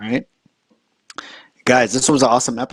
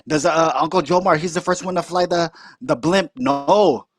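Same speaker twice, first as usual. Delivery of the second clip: indignant uncle; 4 semitones higher than usual. Retold or imitated. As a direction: complain in the uncle's high voice. Uncle voiced in story.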